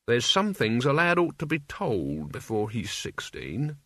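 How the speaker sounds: put-on slow old servant's voice; Albert, confiding old man. Albert taking Mort aside for a talk, slow old man. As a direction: broach a delicate subject slowly.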